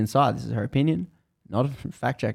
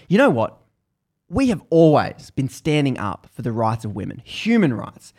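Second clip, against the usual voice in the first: fuming; 2 semitones higher, 3 dB louder than usual. Retold or imitated. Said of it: "she's fuming".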